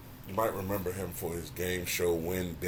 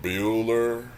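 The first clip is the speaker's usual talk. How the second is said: Ben Stein monotone; 4 semitones higher, 4 dB louder than usual. Retold or imitated. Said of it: "has that monotone voice".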